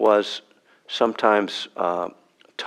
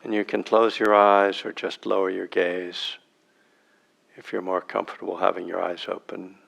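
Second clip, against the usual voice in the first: unhurried meditation guide, long silences between phrases; spacious, measured meditation instruction with long pauses; guided meditation. Real, not acted. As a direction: guide them into sitting, phrase by phrase.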